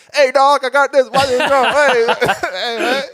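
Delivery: high, loud hyped bro voice; imitating Ben. S0 mocks trying to be Ben, high and loud. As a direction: bounce through it like a hyped-up bro. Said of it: "It'd be like".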